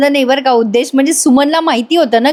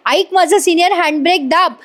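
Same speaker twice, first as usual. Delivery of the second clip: retold shout; 5 semitones higher than usual. Arjun urging Senior to pull handbrake, retold shout. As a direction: imitate an urgent shouted order. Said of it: "Arjun ओरडत असतो".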